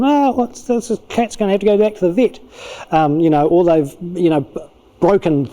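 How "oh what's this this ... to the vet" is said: high-pitched mock distress; hammed-up dismay; upset. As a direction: wail lightly like a guilty, upset child. Acting an upset child.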